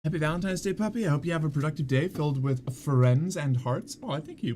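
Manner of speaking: talking to puppy. Real, not acted. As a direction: coo a greeting to the puppy. Fond greeting to a puppy.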